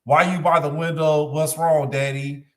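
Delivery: lightly voiced child; a hint of a child asking Daddy; child's voice. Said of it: "in a child's voice".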